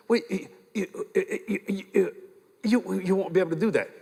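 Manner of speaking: imitating a nurse tripping over her words; flustered stammer. Nurse stopping a heart patient from standing, flustered. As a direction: stutter on "you", then get the sentence out.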